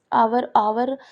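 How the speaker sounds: आवर said with no h, starting on the open vowel; silent H. Shown as a demonstration. Teacher shows the H in hour is silent, repeating आवर. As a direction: sound out आवर twice, vowel first. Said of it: "इतना ही प्रोनाउंसिएट कर रहे हैं".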